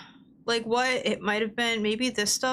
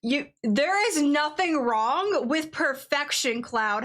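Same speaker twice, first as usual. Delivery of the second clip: mock grandiose declaration; 4 semitones higher, slower than usual. Mock dramatic villain speech.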